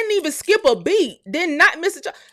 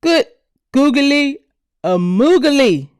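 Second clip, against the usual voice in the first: comic exclamation; slower than usual. Real, not acted. Exclamation at mansion.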